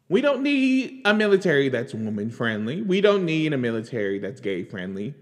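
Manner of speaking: mimicking the pundit's bluster; mocking quote. Mocking a TV pundit's bluster to her viewers. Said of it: "you heard what he said".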